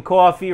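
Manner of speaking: coffee said as Jersey "CAW-fee"; Jersey pronunciation. Shown as a demonstration. Listing words he still says the Jersey way, coffee as "CAW-fee". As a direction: round the first vowel of coffee into "aw". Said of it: "but I still say some words".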